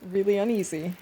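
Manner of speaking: normal talking voice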